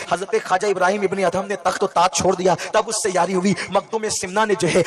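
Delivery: lilting, half-sung refrain of each line; rhythmic preaching refrain. Acted. Preacher lists saints to the crowd, half-singing the refrain. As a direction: chant the refrain like a litany.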